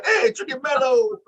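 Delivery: high, drawn-out mimicking call. Co-host repeating the wrestler's greeting, high-pitched. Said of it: "talking in a higher pitched voice".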